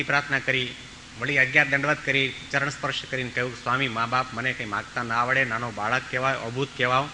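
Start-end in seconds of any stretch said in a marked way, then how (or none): 3.6-7.1 softly, meekly; bow low and plead gently; humble quiet plea. Retold or imitated. Small boy at the saints' feet, quietly humble.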